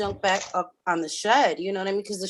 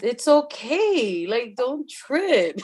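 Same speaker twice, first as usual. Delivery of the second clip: slow, laughing mock husband telling her to calm down; laughing husband impression; slower than usual. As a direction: drawl out the husband's brush-off while cracking up. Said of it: "my husband's just like".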